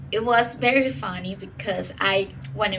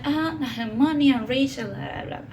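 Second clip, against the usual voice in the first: cifrino impression; 3 semitones higher than usual. Speaker mimics cifrino townspeople in Spanish, light impression. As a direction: imitate Valencia's cifrino people, then fade out. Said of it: "the people is like".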